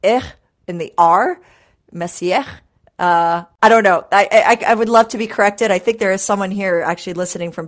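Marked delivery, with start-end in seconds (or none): 0.0-2.4 "Messier" ending in an attempted French "r"; careful amateur French pronunciation of "Messier". Shown as a demonstration. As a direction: demonstrate the French "r" in "Messier", set apart by pauses. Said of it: "taught a little bit on how".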